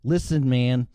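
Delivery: angry customer rant. Pretend. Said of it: "Sincerely, an asshole customer".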